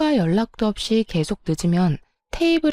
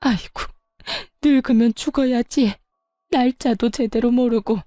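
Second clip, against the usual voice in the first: a higher, hammed-up lament; fake wailing; 3 semitones higher than usual. Mother-in-law faking a wail before her son, mock lament. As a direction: wail it like a staged mourning act. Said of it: "곡소리를 내기 시작하더군요".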